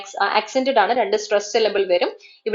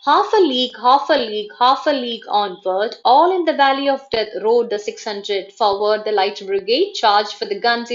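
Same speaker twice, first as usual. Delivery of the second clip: dactylic verse reading. Shown as a demonstration. Teacher reciting Tennyson as a dactylic example, measured and emphatic. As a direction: beat out the repeated phrases. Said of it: "dactylic meter".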